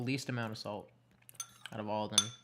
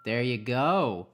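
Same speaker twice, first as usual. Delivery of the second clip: encouraging coach; 6 dB louder, much slower than usual. Real, not acted. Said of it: "coach praises the sound".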